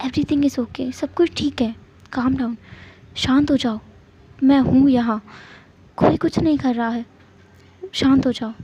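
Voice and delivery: calm him down gently; soothing. Acted. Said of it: "पूरा जोर लगा रहा था अपना विंग को शांत करने का". (प्यार से शांत करना)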